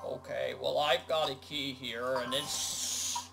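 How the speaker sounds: low frog character. Pretend. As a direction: keep a hint of the frog in it. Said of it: "stop in your frog voice".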